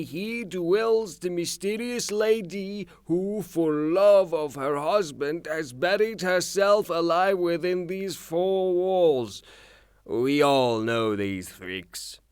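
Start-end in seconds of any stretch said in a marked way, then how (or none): 0.0-9.4 mock poet. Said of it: "look up at your window and say".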